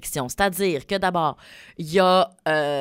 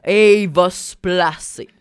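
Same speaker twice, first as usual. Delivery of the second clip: slow, louder, laughing through it; teasing laugh; 7 dB louder, slower than usual. Acted. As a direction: lean in and tease him while laughing. Teasing co-host about Alex.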